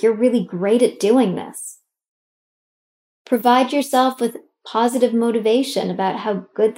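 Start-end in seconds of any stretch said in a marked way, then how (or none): 0.0-1.8 encouraging. Shown as a demonstration. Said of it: "Tell yourself things like".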